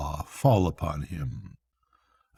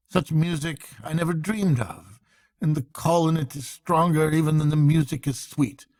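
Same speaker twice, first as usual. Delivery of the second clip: rapt Rat; 5 semitones higher than usual. Acted. Rat enthuses to Mole about the piping, rapt and higher. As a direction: marvel at music no one else hears.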